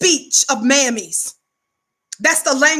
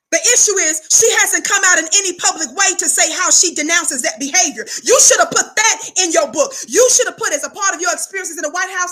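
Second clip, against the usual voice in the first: raised, rising preacher's cadence, hammering each point; preaching at full force; 3 semitones higher than usual. Real, not acted. Preacher condemning the book to his congregation, fiery. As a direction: preach it like a pulpit rebuke.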